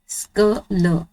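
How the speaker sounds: स्कूल broken into स्क and ल with a gap; split into syllables. Shown as a demonstration. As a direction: say स्क, then ल, as separate beats. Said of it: "तो स्क and ल". (स्कूल को स्क और ल में तोड़कर)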